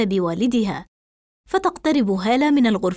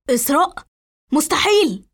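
mildly shocked exclamation; a touch of stunned disbelief; 4 semitones higher than usual. A narrator's reading. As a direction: stop short on the name, then exclaim in disbelief. Confronts her in disbelief.

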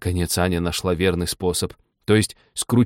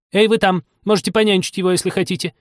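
окрик через кухню; 10 semitones higher, 4 dB louder than usual. Acted. Герцогиня кричит Ане.

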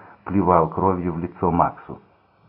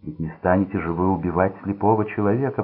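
usual speaking voice

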